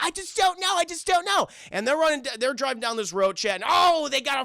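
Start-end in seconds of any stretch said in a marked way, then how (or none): 0.0-1.5 put-on high, whiny helpless girl; mock whiny Jenny. Mocking the dumb heroine, high and whiny. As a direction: whimper it like a clueless heroine. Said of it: "and Jenny's like".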